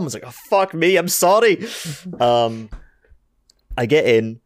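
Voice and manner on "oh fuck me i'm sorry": mock flustered apology. Retold flustered reply to bouncers.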